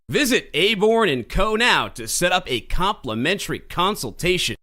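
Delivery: upbeat promo read for a conference. Acted. Host reads sponsor ad to listeners, promo voice. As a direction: sell it like a radio spot.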